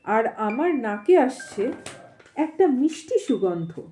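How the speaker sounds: measured storytelling with pauses between phrases; unhurried audiobook-style reading; story narration. A narrator's reading. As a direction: read the tale aloud, phrase by phrase. Reads the story aloud.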